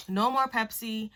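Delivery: lightly voiced mom, matter-of-fact; a hint of a firm mother setting a rule; mom's first warning. Mom bans her Pepsi after the news, lightly voiced. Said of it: "the first thing she told me was".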